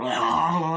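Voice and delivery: garbled mock screech; imitated monster cry. Head and eyes popping out, imitated monster cry. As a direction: wail like a mutating creature.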